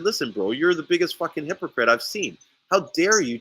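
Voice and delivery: retold outrage, voice lifted; indignant confrontation. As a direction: act out calling a rival out.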